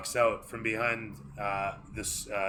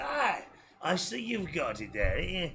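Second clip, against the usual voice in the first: gnome voice; 7 semitones higher than usual. Acted.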